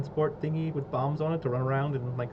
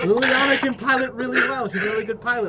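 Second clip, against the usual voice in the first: excited; 9 semitones higher, 8 dB louder than usual. Real, not acted. Excited pitch for Liliana.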